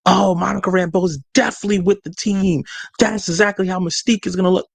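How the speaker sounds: lightly acted fan excitement; imitating excited fans. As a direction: marvel like a convinced fan. Voices fans believing fake images.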